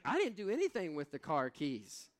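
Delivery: mildly hammed-up exasperated husband; mock exasperated. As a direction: protest like an innocent husband. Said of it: "I was like".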